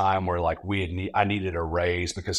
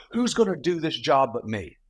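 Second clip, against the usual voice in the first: fast, higher, full of himself; imitating his own brash complaining; cocky venting; 6 semitones higher than usual. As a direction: rattle it off like an arrogant young hotshot. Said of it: "I said".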